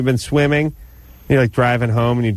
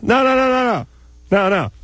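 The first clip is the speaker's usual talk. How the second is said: squeaky puppet voice; 12 semitones higher than usual. Pretend. Puppet protests, calming down.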